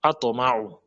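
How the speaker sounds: Ato ma'u with heavy T echoed as "to"; bouncing qalqala T. Shown as a demonstration. Teacher naming the qalqala letter, T bounced. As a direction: let the T rebound before ma'u. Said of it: "Le to, col colon".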